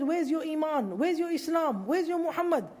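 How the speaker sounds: retold mocking. Warrior taunting the Muslims before a duel, mildly mocking. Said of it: "he was mocking the Muslims".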